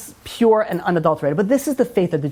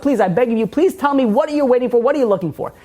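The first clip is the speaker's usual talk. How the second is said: pleading; 4 semitones higher than usual. Retold or imitated. Rabbi begs kid to tell him.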